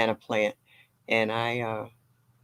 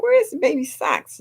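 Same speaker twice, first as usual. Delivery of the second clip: higher, searching tone; mock puzzled question; 4 dB louder than usual. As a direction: act lost in the store. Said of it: "I'd be like".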